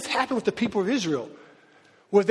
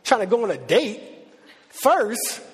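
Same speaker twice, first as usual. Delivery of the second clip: lightly voiced God, high and pressing, a bit rushed; a hint of a grand, amused God; God's voice; 6 semitones higher than usual. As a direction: play God setting the record straight, then slowing on I am being. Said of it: "He's like".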